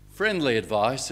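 preacher restating the point with emphasis; emphatic repeat. Shown as a demonstration. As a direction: announce it boldly this time.

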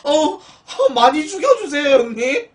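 high, loud gushing through laughter; laughing plea. Real, not acted. Streamer egging on a generous donor, laughing. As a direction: plead gleefully while cracking up.

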